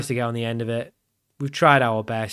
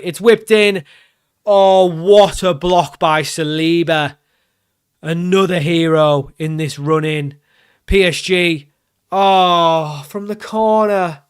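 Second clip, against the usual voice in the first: frantic match reaction; 3 semitones higher, 6 dB louder, slower than usual. Real, not acted. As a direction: react in real panic as the danger unfolds. Reacting live to a block and corner.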